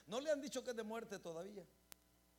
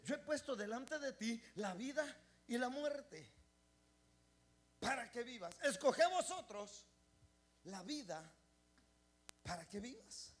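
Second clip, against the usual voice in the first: solemn divine voice. Retold or imitated. God's words, slow and solemn.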